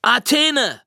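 high-pitched blurted interruption; Owen. A narrator's reading. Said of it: "platzte Owen dazwischen".

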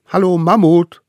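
put-on high, loud child-like call; little one calling out. A narrator's reading. Little hunter calls to the mammoth, high and loud. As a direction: call out brightly as the tiny hunter. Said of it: "rief er".

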